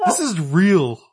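high, laughing insistence. Real, not acted.

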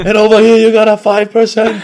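high laughing delivery. Real, not acted. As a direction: laugh through the line. Laughing joke.

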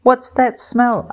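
high, disgusted squeal; a small bird wrinkling its beak at a stink; little kiwi, grossed out. A narrator's reading. Little kiwi Kapai recoils from the sulphur smell, high disgusted squeal. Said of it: "asked Kapai".

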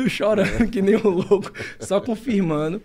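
high and loud, words spilling through laughter, slowed; laughing. Real, not acted. Telling how he cried at coming out, laughing through it. Laughing while recalling crying.

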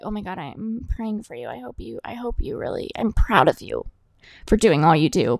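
tender, praying-for-you voice, put on; mock so-nice supervisor. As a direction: imitate a supervisor gushing with concern. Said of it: "They were so nice".

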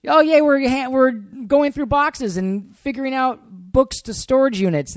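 high-pitched sing-song parody of glee; mock excitement. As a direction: gush slowly in mock delight. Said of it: "you're like".

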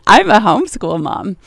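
amused second attempt at saying it; barely straight face. Real, not acted. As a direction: say it again, holding back a laugh. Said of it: "can't even say that with a straight face".

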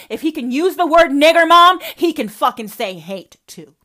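loud, raging yell; furious shout. Real, not acted. Daughter shouts at her mother about her stepfather's slur, furious. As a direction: hurl it at her.

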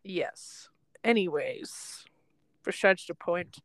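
hushed whisper. Real, not acted. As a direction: whisper it as an aside. Aside while watching a car.

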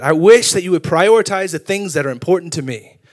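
acted domestic frustration; imitated wife's complaint. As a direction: plead the complaint as an exasperated spouse would. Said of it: "gotten in so many arguments".

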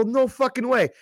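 high-pitched disbelief; retold disbelief. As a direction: balk at it in amazement. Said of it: "I go".

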